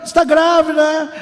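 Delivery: usual speaking voice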